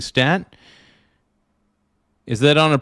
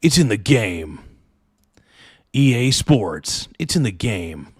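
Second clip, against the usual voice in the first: EA Sports announcer. Retold or imitated. Streamer nails the EA Sports intro for chat, booming. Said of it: "I think I got it down".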